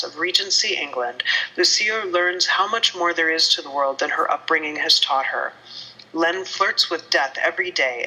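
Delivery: measured, dramatic blurb read; steady read-aloud with teasing questions at the close; book blurb reading. Acted. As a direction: read out a back-cover teaser with storybook flourish.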